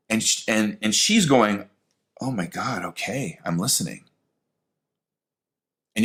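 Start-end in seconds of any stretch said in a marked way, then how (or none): 2.2-4.0 awed hush. Retold or imitated. She receives the sign.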